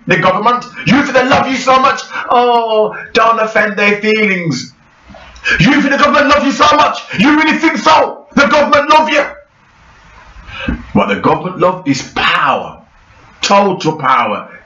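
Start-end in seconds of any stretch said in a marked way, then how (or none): 0.9-9.2 incredulous shout. Real, not acted. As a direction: shout the question in scorn. Ranting at the audience.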